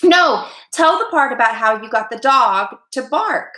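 high-pitched insistent plea; eager youngster butting in; pleading. A narrator's reading. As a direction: plead for your favourite part. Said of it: "pleaded a third".

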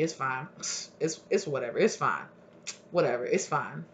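careless partygoer. Acted. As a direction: brush it off, half to yourself.

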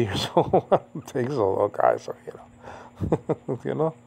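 words breaking into real soft laughter; chuckling. Real, not acted. YouTube teacher joking about being eighty, chuckling. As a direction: laugh quietly through the words.

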